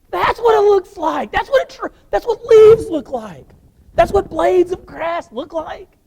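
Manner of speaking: high, slow, wondering voice; awestruck. Acted. Healed man seeing colors and leaves in wonder. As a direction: marvel at seeing for the first time.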